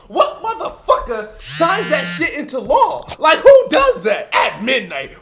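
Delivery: laughing through an outraged question; incredulous, laughing as you ask it; laughing rant. Real, not acted. Ranting to friends about food labeling, laughing.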